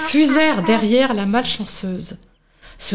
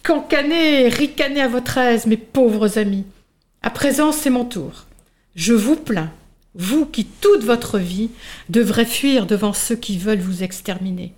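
proud butterfly. Acted. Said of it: "Le papillon prit la parole".

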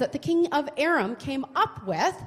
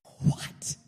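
stunned what; 4 dB quieter than usual. Real, not acted. Disbelief at the banquet idea.

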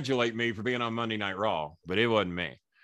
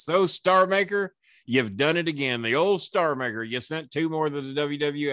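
on-camera jab; 5 semitones higher than usual. Retold or imitated. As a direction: imitate a needling wrestling interviewer. Rival's on-camera jab acted out.

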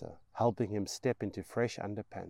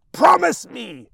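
high, loud mad shriek; 17 dB louder than usual. Acted. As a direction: shriek it like a mother gone mad. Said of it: "she shrieks".

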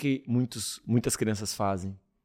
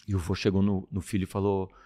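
ordinary talk

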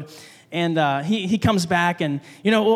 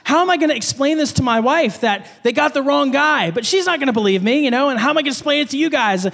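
higher-pitched, mildly panicked fretting; retold nervousness; 4 semitones higher than usual. Pastor dreading explaining it to wife, retold nervous worry. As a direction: fret aloud in mock alarm. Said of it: "I was nervous".

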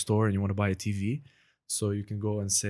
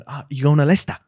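loud, high, sing-songy British accent; British accent impression; 5 semitones higher, 11 dB louder, faster than usual. Shown as a demonstration. Guest copies a comedian's bit, sing-songy British accent. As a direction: lilt it upward in a big British accent. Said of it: "I like the sing-songy part of it".

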